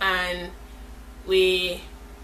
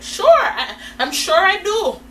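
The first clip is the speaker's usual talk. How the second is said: high, loud, laughing retort; wry agreement; 10 semitones higher, 6 dB louder, slower than usual. Retold or imitated. Storyteller answering the girls' remark on her face, wry agreement. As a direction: agree loudly through a knowing laugh.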